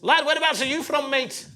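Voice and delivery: high-pitched Scouse question; excitable Scouse voice on the phone; Scouse caller. Acted. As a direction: quiz a stranger in hammed-up Scouse. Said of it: "this Scouse taxi driver".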